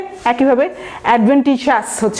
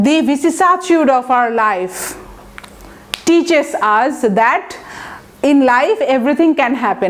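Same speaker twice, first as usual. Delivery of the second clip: slow example sentence; much slower than usual. Shown as a demonstration. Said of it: "teacher reads example sentence slowly".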